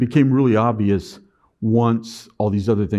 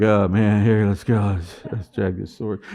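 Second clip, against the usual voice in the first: weary reluctance; 3 semitones lower than usual. Retold or imitated. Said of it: "I'd be like".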